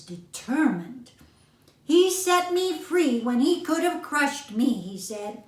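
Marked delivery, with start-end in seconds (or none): 1.8-4.7 mouse voice. A narrator's reading.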